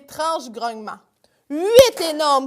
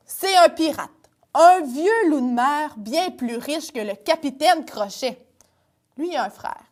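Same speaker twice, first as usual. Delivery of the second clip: put-on lively read-aloud for children; storytelling to kids. A narrator's reading. Storyteller reading a pirate tale to children, lively. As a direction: draw the little ones into the tale.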